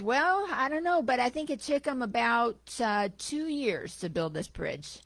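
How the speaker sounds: lightly voiced Aussie taxi driver; a hint of an Aussie cabbie; attempted Aussie accent. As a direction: start high in a mild amateur Australian accent. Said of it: "if I can do an Aussie accent".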